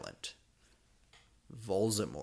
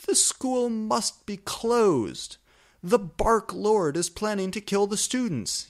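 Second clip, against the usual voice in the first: shrill official yell; 10 semitones higher, 7 dB louder than usual. A narrator's reading. Fudge yelling at Dumbledore that the school must close, loud. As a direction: bellow it like a panicked minister. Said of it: "yelled Cornelia Fudge".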